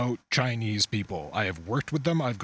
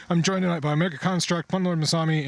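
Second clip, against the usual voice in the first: host announcement; 6 semitones higher, 3 dB louder than usual. Pretend. Host announces tonight's guests.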